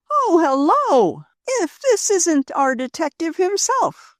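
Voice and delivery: high, bright-spirited greeting, slow and loud; gaily. Acted. Rose gaily greeting Joe outside the store, high and loud. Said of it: "she greeted him gaily".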